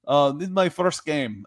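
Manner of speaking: high-pitched imitation of a woman fan. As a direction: imitate a female football newcomer, voice lifted. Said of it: "one of my favorites was the woman".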